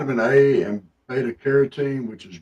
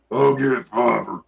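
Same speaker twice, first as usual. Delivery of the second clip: cowboy drawl; 2 semitones lower, slower than usual. Retold or imitated. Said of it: "Sounds like some cowboy out there".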